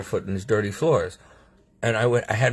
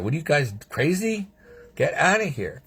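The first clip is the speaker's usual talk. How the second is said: incredulous dismissal; 5 semitones higher than usual. Retold or imitated. Patient refusing doctors' breathing tube, incredulous. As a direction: pitch jumping up in indignant disbelief. Indignant retort to doctors, acted.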